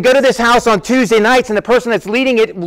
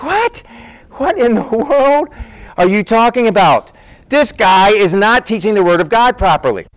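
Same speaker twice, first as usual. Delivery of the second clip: frustrated disbelief; 2 semitones higher than usual. Retold or imitated. Preacher reacting to a massive church, frustrated and incredulous. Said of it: "And I get frustrated".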